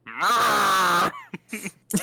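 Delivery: loud, high monster cry; angry tree roar. Pretend. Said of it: "That's an angry tree".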